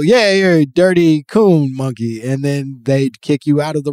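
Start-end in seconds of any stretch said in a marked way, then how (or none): 0.0-2.2 raised, louder mock heckle; a mild pretend yell; mock crowd yell. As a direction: imitate a jeering crowd, half yelled. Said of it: "they would all yell".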